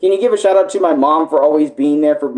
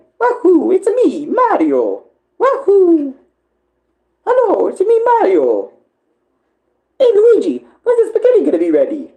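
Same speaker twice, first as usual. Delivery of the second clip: very high, sing-song voice swooping slowly up and down. Doing a requested voice from chat: Mario voice. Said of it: "Can you do Mario again?".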